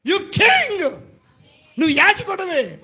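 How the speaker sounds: a lightly voiced God calling out; God speaking. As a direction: announce it as God's own declaration. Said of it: "ఆయన నేనేమన్నాడు తెలుసా?".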